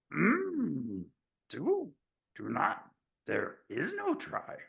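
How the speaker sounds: high, hushed, slow little sage voice; Yoda voice. Pretend. Medium doing Yoda for the host to lighten him up, high and hushed. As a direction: croak it softly like a tiny old master. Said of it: "Yoda's voice".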